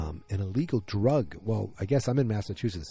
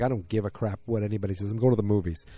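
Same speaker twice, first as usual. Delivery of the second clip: defiant, don't care; faster than usual. Shown as a demonstration. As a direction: say it like nobody else matters. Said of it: "She just said it like".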